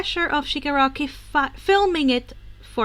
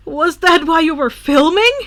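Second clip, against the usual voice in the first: put-on boyish voice; 5 semitones higher, 10 dB louder than usual. Izuku voiced in story.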